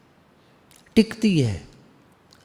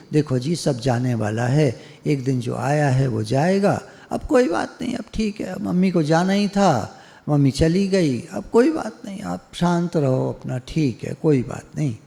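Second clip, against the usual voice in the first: soothing guru. Retold or imitated. Guru consoling a disciple whose mother died, soothing. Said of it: "तो गुरुजी कहेंगे".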